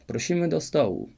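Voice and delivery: calling out. A narrator's reading. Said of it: "wołał król".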